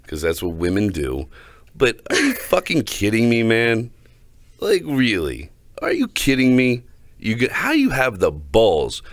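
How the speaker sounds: a fired-up complaint, half laughing; heated rant. Real, not acted. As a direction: vent loudly, outraged at him. Ranting about a bad date.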